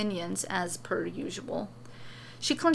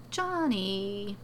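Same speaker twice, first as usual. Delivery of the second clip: soft and pleasant. Acted. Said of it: "she says softly, almost pleasantly".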